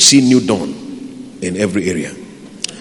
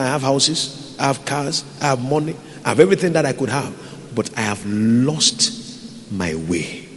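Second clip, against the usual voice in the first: softer, sad, fading confession; old man's lament; 7 dB quieter than usual. Retold or imitated. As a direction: mourn a lost life quietly. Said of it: "began to cry".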